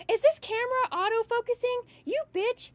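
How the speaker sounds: high, loud irritated cursing; exasperated outburst. Real, not acted. Streamer scolding the auto-focusing camera, exasperated. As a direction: cuss out misbehaving equipment, pitch jumping up.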